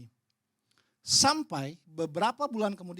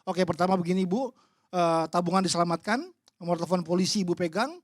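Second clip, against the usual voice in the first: louder, no-nonsense consultant giving orders; brisk technical advice; 6 dB louder than usual. Retold or imitated. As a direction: rattle off practical steps like a fixer. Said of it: "Pokoknya saya biasanya teknis". (nasihat teknis yang tegas dan lebih keras)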